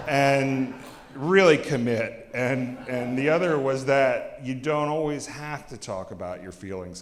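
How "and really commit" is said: laughing punchline. Real, not acted. Joke punchline while laughing.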